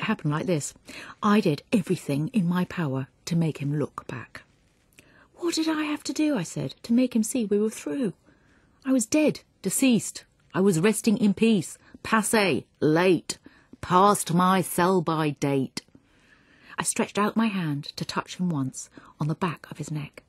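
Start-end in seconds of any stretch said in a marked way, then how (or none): 5.4-15.8 exasperated plea. Acted. Dead woman pleading, exasperated.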